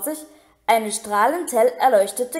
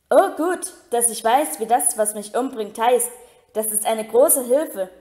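snapping sarcastically; 3 dB louder than usual. Acted. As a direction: spit the sarcasm at her. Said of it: "fauchte Ron".

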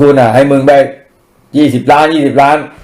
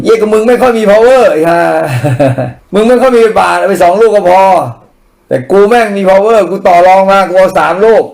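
mocking boss reply; 4 semitones higher than usual. Faction boss sneering at MP who complains about two bananas. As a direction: play the smug faction boss brushing him off.

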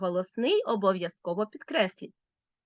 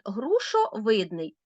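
грушовидний said slowly, syllable by syllable; slow example word; slower than usual. Shown as a demonstration. Teacher to pupils, slowly sounding out грушовидний. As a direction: spell out грушовидний slowly for the class. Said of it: "Наприклад".

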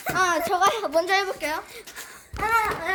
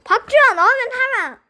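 shouting orders; 4 dB louder than usual. Pretend. Mock drill instructor yelling.

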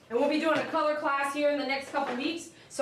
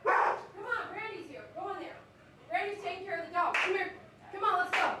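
much higher sing-song voice for the dogs; high pet voice; 7 semitones higher than usual. Real, not acted. Groomer coaxing her dogs Pookie and Brandy, high pet-talk voice. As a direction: coo up high like talking to a puppy.

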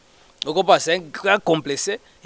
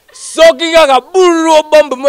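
laughing through the words, louder and higher; 10 semitones higher, 9 dB louder, slower than usual. Real, not acted. Telling the host about old band feuds, laughing. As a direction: get the line out while laughing. Laughing while recalling rivalry.

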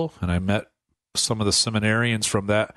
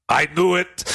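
higher-pitched mock exclamation; retold exclamation; 7 semitones higher, 3 dB louder than usual. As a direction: act out the bishop's knowing outburst. Bishop's retold exclamation, teller laughing.

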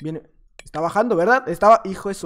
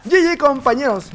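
ordinary talk

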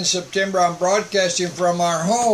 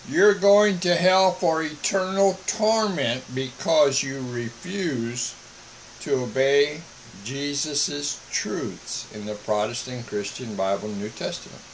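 restrained calm. Pretend. Preacher warning of eternal torment, restrained calm. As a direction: hold back from screaming while warning them. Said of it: "I'm not screaming at you".

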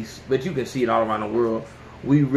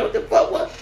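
mock scream. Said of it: "And you just scream like".

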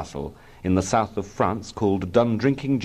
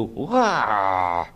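contained "wah" at usual pitch; inward wail. A narrator's reading. Small boy reflecting on the gore, inward wail. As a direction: wail it to yourself, held in.

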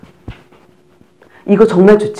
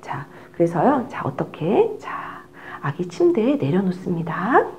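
softer, slow hush; 2 semitones lower, 8 dB quieter than usual. Shown as a demonstration. Teacher speaks softly, slowly laying the baby in bed. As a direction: keep it down while laying the baby. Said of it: "laying baby down".

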